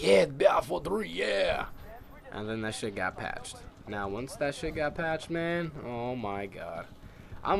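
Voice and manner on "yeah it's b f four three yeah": gleeful cheer. Retold or imitated. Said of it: "I was like".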